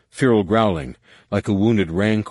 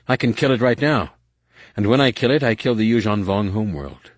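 fierce threat; 3 semitones higher than usual. Acted. Jason, desperate threat.

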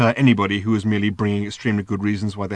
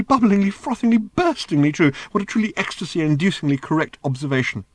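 ecstatic robot; 6 semitones higher than usual. Acted. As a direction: bubble over, then ease off. Robot gushing, fading.

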